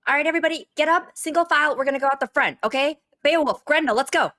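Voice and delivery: directing. Acted. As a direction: herd everyone out in line. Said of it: "Penny's just trying to direct everybody".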